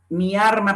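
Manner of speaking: MI ARMA with R where "alma" has L. Shown as a demonstration. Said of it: "Pronunciación de la R en lugar de la L".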